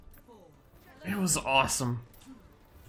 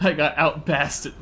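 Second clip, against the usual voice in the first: slow words through laughter; laughing, slow; slower than usual. Real, not acted. Gamer laughing at losing to a Bastion, slow and laughing. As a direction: laugh it off slowly.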